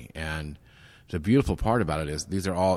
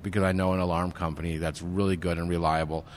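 eager helpful offer; 3 dB louder than usual. Retold or imitated. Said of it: "I'm like".

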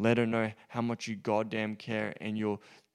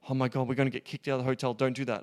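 panicked rush; faster than usual. Shown as a demonstration. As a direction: rush it out like you're scared of getting caught. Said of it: "you don't wanna do it like".

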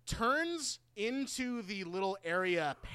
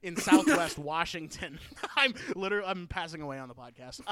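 talking through a choke; cough-choked, pushing words out; choking. Real, not acted. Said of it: "I'm choking and dying".

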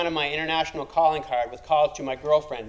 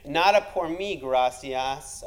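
smug; slower than usual. Retold or imitated. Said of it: "I said smugly".

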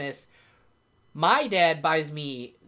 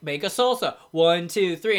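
infomercial; 3 semitones higher, 6 dB louder than usual. Retold or imitated. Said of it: "in the infomercial".

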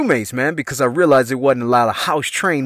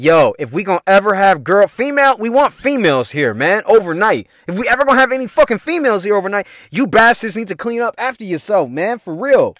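higher, insistent mock telling-off; mild mock yell, pitched up; retold yelling; 5 semitones higher than usual. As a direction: lay down the law to roommates, acted out. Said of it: "yelling at these motherfuckers".

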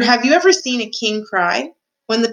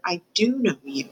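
softer, understated awe; in wonder; 6 dB quieter than usual. A narrator's reading. Mouse recognizing the knight of his dream, in soft wonder. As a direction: let the realization dawn softly. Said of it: "said Despreau out loud in wonder".

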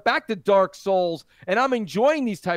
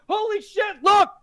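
excited shout; 8 semitones higher than usual. Retold or imitated. Excited gamer quote.

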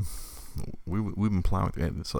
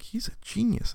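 teacher gushing; 4 dB quieter than usual. Retold or imitated. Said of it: "she's like".

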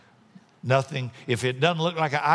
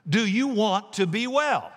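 gentle questioning Jesus; 7 semitones higher than usual. Acted. Preacher voices Jesus asking.

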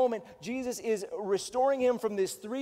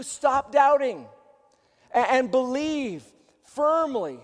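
slow and louder, pressing; forceful exhortation; 3 semitones higher, 5 dB louder, slower than usual. Acted. Pastor urging doubters, slow, loud and firm. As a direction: plead them out of their doubt. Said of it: "preaching exhortation".

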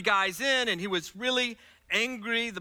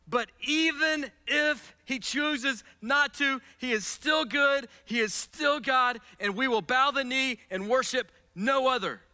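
defiant declaration. Acted. Preacher voicing defiant faith.

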